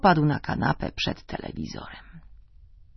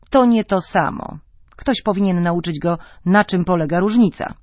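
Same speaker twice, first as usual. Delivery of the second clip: loud insistence; 2 semitones higher, 6 dB louder than usual. Acted. Husband arguing with his wife, loud and lecturing. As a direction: lay down the law, raising your voice.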